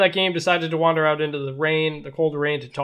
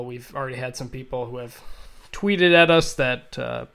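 upbeat sponsor read. Acted. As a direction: read it like a radio ad. Host reads sponsor ad.

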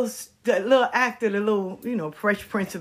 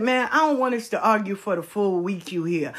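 tearful. Retold or imitated. Will upset over argument.

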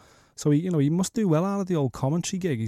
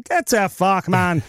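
annoyed snap; 5 semitones higher, 5 dB louder, much slower than usual. Retold or imitated. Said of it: "And Conor's going".

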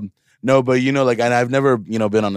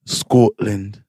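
drawn-out word in a Scottish accent. Shown as a demonstration. Non-accent guy asked to say Scotland, Scottish accent. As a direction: try a slow Scottish accent. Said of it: "Say Scotland".

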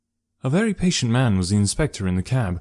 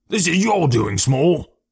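angry accusation in a raised pitch; 7 semitones higher, 3 dB louder, slower than usual. A narrator's reading. Detective blaming the prisoner for the empty box, angry. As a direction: accuse him sharply, voice pitched up. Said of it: "said Athelney Jones angrily".

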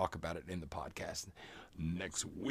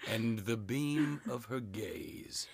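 hammed-up fumbling poem recital; nervously reading love poem; 4 semitones higher, 3 dB louder, much slower than usual. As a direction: stumble through the verse dramatically. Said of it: "I'm Edgar Allan Poe".

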